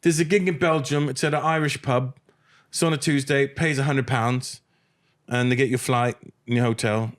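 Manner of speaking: high-pitched agent impression, easing toward normal; John Keys. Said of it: "this agent named John Keys out there".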